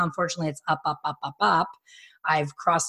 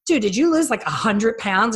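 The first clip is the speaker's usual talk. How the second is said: high, louder stunned question; shocked disbelief; 4 semitones higher, 5 dB louder than usual. Retold or imitated. Stylist to Bud at the bar, high shocked disbelief. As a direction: gasp it out in disbelief. Shocked at his weight loss.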